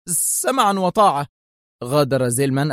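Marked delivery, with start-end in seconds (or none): 0.1-1.3 higher, helpless repeat; collapsing submission. A narrator's reading. Principal repeats her obedience to Zelman, falling apart. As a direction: repeat it pleadingly, utterly defeated. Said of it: "تمتمت في انهيار".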